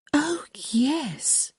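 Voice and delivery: high, light dawning eagerness; brightening. A narrator's reading. Young lady asked about the diary, brightening. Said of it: "brightening before his eyes".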